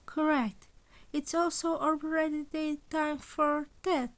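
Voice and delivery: a hint of a smug animal principal; lightly voiced cheerful principal. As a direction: sound sweetly amused at his dread. Principal Nezu's voice.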